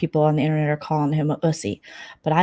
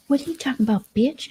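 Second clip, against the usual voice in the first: mock catty high voice; 8 semitones higher than usual. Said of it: "She's like".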